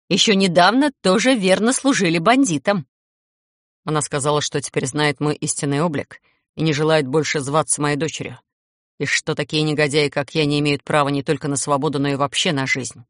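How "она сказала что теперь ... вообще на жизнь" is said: hissing through teeth. Acted. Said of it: "сквозь зубы прошипел вампир".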